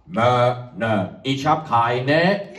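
low stubborn goat, dragged out; a defiant goat who won't look up; cheeky goat. Acted. Goat Tom refuses farmer Otto, low and stubborn.

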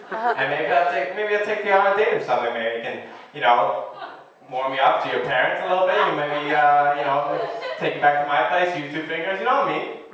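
smooth lazy charmer, barely changed; Vince Vaughn impression. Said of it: "How about Vince Vaughn".

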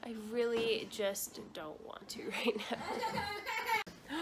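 whispered aside with a laugh. Real, not acted. Aside to camera.

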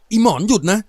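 high, loud barked order; snapped shout. A narrator's reading. Samai shouts at her younger sister to stop. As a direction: stop her with a sharp yell. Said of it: "สมัยตวาด".

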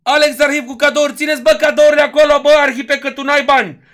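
loud, teasing call-out; loud mock scolding. Real, not acted. Streamer teases donor for sending gifts, loud mock scolding. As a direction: scold the generous donor at full volume.

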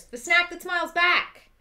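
ad jingle voice. Pretend. Quoting the Goldfish slogan.

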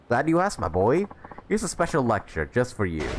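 a hint of a showy old lecturer; pleased old mentor. Voices the old mentor in game.

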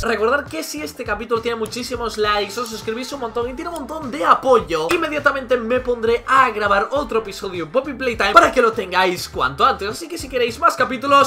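high, energetic sign-off pitch; rally the viewers for likes and subscriptions; YouTuber outro. Real, not acted.

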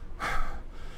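soft, airy exhale; spent sigh. Real, not acted. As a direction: let the anger out in a sigh. Spent after outburst.

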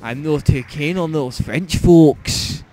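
botched Scottish accent sliding into Yorkshire; loud, slow, badly faked Scottish accent; attempted Scottish accent. Shown as a demonstration. Player trying Scottish on the same line for his friend, botched Scottish accent. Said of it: "Scottish accent".

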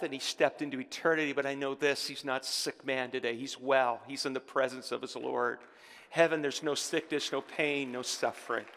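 low, soft, reverent assurance; gentle consolation. Real, not acted. Consoles church about man who died.

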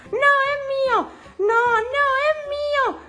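whiny protest. Acted. Pepa shouting at George over the dinosaur, high and whiny. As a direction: insist the toy is yours.

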